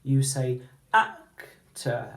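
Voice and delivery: actor, rise on the first syllable ak; stress on ak. Shown as a demonstration. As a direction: lift the pitch on ak, let tor drop. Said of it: "when you say the word actor".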